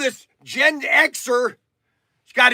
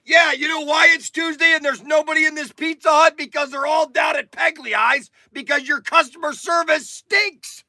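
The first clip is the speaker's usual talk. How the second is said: angry rant; 5 semitones higher than usual. Retold or imitated. Ranting at the restaurant worker.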